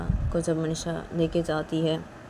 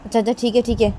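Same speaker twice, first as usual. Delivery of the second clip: louder, exasperated concession; giving in; 2 semitones higher, 4 dB louder than usual. Acted. Nisha to the crowd of friends, loud exasperated giving in. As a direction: give in just to shut them up. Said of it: "तो तभी निशा बोलती कि".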